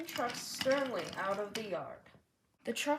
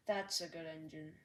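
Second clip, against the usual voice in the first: kindly; 5 semitones lower, 4 dB quieter than usual. A narrator's reading. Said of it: "said the Fat Controller kindly".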